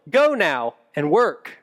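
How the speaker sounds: a hint of a stern Pharaoh reading; lightly voiced harsh taskmaster. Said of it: "the voice of the taskmaster that the Israelites heard".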